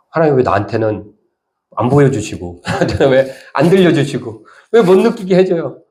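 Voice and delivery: rising plaintive protest; mock complaint to God. Preacher voicing believers who cannot feel God, rising complaint.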